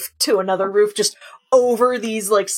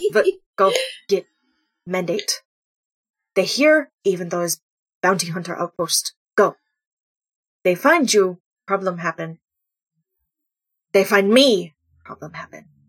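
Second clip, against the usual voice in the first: put-on character voice, pitched lower. Recounting a story scene where Husky gives an order, Husky's voice dropped low. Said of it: "like voice drops".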